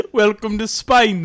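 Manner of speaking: imitating a bad British accent; weird British accent. Co-host copying the comic's Spain line, mock British accent. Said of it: "You're doing, like, a weird British accent".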